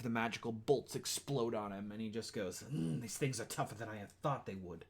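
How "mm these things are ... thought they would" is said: a hint of a sneering villain; lightly voiced wolf villain. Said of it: "Why does he sound like a villain?".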